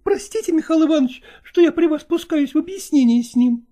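high, polite female voice; woman apologising to a guest, high; apologetic woman. Acted. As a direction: excuse yourself to the guest, high.

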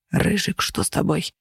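hushed voiceless whisper. A narrator's reading. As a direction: breathe it out, barely voiced. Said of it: "раздался шёпот".

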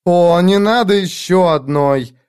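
groan. A narrator's reading. Sordiko groans at Iskaral's tale, slow. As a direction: moan it in despair. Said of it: "застонала".

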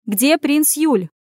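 high, slow, insistent cry; shouted demand. A narrator's reading. Anya demands the prince from the innkeeper, crying out. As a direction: demand it, stretching each word. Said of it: "закричала Аня, схватив его за руку".

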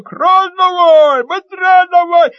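high, loud, slow yells; urgent shout. Acted. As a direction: bark out the order. Boy keeps urging, pumping.

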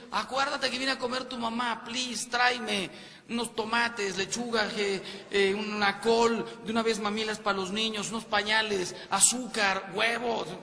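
lista de encargos, alta y rápida; grítalo desde el balcón al marido que se va; esposa gritando la lista. Retold or imitated. (esposa desde el balcón al marido que arranca, voz alta de encargo)

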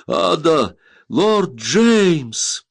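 high, loud joyful shouts; joyful cry. Acted. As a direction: call out in happy surprise. Joyful cries on reunion.

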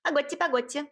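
fluster, begging them to wait. A narrator's reading. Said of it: "заволновалась Агаша".

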